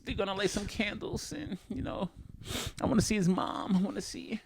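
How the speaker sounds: lightly voiced girlfriend planning a vigil; mock earnest girlfriend. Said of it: "and then she goes".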